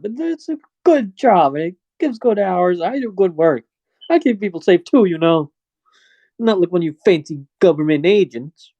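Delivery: proud guard hurt that nobody respects him; touchy security guard. Acted.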